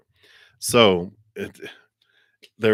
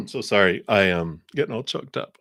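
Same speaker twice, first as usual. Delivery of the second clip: mock choked up. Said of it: "I'm just kidding".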